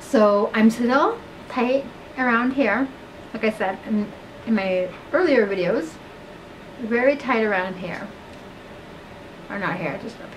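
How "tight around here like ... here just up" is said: lips held apart by fingers; talking with stretched mouth; fingers pulling lips. Real, not acted. Seen 1: Fingers press and pull lip corners; hands drop 1.1–2.9s.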